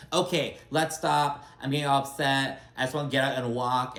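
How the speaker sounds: a touch of mock irritation; mildly irritated, retold. Host imitating irritated trip host cutting off the argument, mildly exasperated. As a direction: retell it with mild exasperation. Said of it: "Julia's all irritated".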